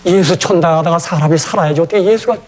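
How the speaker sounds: a hint of North Korean dialect in a pleading prayer; lightly voiced North Korean preacher praying over the dead man. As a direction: pray in a North Korean dialect, begging God. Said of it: "북한 사투리로".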